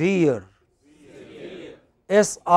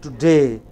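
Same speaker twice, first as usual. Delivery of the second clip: Today with a strong -day; stress on final syllable; 4 semitones lower, 3 dB louder than usual. Shown as a demonstration. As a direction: punch the last syllable of Today. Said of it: "where stress is on the final syllable".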